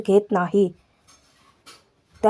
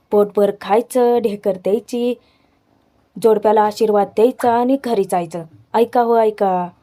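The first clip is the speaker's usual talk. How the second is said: village crier. Retold or imitated. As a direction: announce it to the village in measured, rhyming phrases. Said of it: "अख्ख्या गावाला दवंडी देणार असतात".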